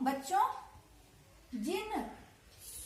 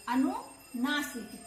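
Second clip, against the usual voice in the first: slow repeat; much slower than usual. Shown as a demonstration.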